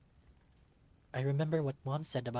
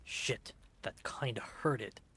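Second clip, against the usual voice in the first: henchman voice; slower than usual. Acted. Henchman hit.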